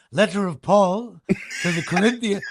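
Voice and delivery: a hint of the PA voice on a church reading; announcer as lector. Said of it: "could you imagine".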